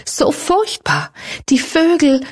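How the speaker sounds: high, slow, anguished sobbing words; tragic heroine sorrow. A narrator's reading. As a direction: break down over the birds. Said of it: "schluchzte sie". (verzweifeltes Schluchzen, hoch und langsam)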